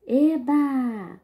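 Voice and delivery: a high, loud "Eba!"; delighted cheer. Shown as a demonstration. Teacher rereading the comic to pupils, cheering. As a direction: cheer with glee. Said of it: "Vou ler novamente".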